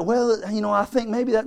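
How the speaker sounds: mock doubtful. Voices wavering doubter before rebuking.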